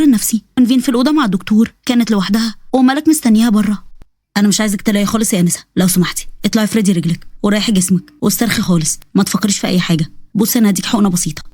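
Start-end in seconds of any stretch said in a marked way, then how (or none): 4.4-11.4 lower, calm doctor voice. Acted. Doctor calmly settling his nervous patient, lower voice.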